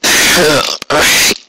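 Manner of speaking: tired sigh. Acted. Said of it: "Shiny Armor sighed".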